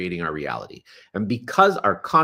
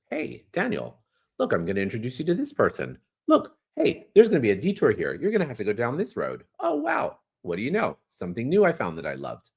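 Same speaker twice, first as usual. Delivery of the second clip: playful universe voice. Pretend. Voicing the universe answering.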